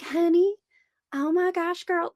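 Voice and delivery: put-on high-pitched gushing local St. Augustine accent. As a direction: imitate a super-nice St. Augustine local's accent. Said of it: "they always have an accent".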